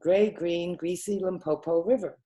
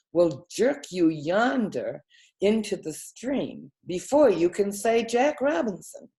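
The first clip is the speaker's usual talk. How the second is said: pompous snake. Acted. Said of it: "This is the way bicolored python rock snake always talked".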